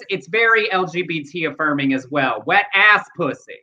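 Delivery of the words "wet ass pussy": "Wet ass pussy" with the emphasis on "ass"; shifted emphasis. Shown as a demonstration. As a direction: stress moved onto "ass". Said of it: "if you change the emphasis".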